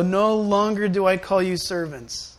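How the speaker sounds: slow, deliberate scripture reading; measured, unhurried verse. Real, not acted. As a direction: read it slowly, word by word. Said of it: "let me read it slow".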